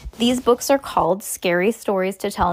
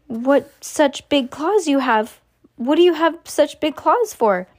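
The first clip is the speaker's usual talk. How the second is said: high-pitched little questioning voice; frightened boy; 6 semitones higher, 4 dB louder, slower than usual. A narrator's reading. The boy questions the creature's claws, high-voiced and frightened. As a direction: ask it high, as a frightened child.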